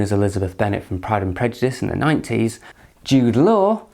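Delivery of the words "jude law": exasperated name call. Pretend.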